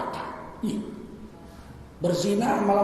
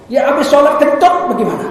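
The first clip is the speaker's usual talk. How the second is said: laughing mock question; 7 semitones higher, 8 dB louder than usual. Mocking example, laughing.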